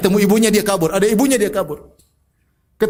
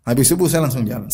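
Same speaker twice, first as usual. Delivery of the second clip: same line again, much lower; a lower, calmer echo of the first take; lower repeat; 7 semitones lower than usual. Shown as a demonstration. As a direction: drop the pitch and settle it.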